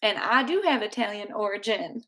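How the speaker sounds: put-on half-hearted Italian accent, lightly lilting; amateur attempt at sounding Italian. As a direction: have a clumsy go at an Italian accent. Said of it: "that was my Italian accent".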